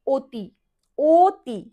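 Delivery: অতি said as ওতি, open o sound at the start; pronunciation demo. Shown as a demonstration. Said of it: "আমরা অতি কথাটার উচ্চারণ".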